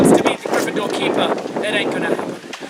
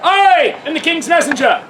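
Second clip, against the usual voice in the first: King's messenger; 3 semitones higher than usual. Acted. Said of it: "Strikes a dramatic pose".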